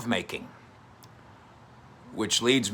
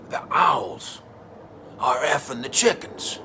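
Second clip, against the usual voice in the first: hammed-up shout; 3 semitones higher, slower than usual. Shown as a demonstration. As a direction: belt out the punchline, owls hit hard. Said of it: "I'm doing this with my hands".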